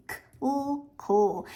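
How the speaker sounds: "k" alone, pause, "cool" without its k, then joined "cool"; sounds blended. Shown as a demonstration. Teacher demonstrating a blend to parents, sounded out then joined. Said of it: "I'm blending the sounds together".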